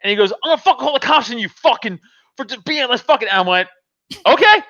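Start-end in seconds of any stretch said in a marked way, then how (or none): 0.3-3.3 imitating a rushed, higher threat; mock tough-guy rant, fast. Angry husband threatening with police, tough-guy bluster. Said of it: "like a fucking tough guy". 4.3-4.6 very high, loud chirp; mock-agreeable. Answering the husband's threat to call police, mock-agreeable.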